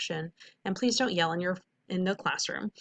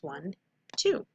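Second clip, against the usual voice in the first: counting syllables; 2 semitones lower, 4 dB quieter than usual. Shown as a demonstration. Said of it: "two syllables".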